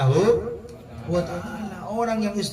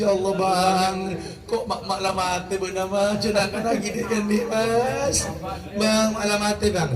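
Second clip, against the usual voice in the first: mock crying; 3 semitones higher than usual. Widow wailing to her dead husband, mock crying. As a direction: imitate a widow's tearful lament. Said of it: "Ya, istrinya nangis".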